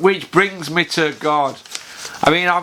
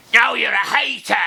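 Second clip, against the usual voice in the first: much higher, teasing comeback; mocking retort; 8 semitones higher than usual. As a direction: turn it back on them, cheeky. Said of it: "well, if you hammer it".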